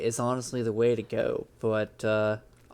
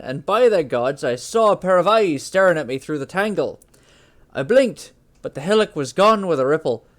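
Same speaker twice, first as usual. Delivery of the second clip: Norse accent; 3 dB louder than usual. Shown as a demonstration. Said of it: "I'm gonna try for a Norse accent".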